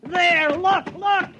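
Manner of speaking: breathless high excitement; excited. Acted. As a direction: burst out thrilled, pointing him to the trap. Discovers catch in trap.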